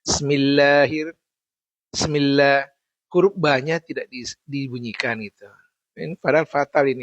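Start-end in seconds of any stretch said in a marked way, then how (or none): 0.1-2.7 Bismillah with the ba swallowed, said smila; wrong pronunciation. Shown as a demonstration. Teacher showing students a common mistake, ba dropped. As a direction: drop the b sound, say Bismillah as smila. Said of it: "ada yang membacanya begini".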